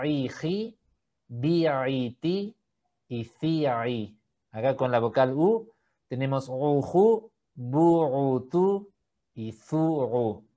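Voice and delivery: iji, bi'iti, uju said with throat catch; ain with vowels. Shown as a demonstration. Teacher drilling ain syllables. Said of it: "con la vocal I".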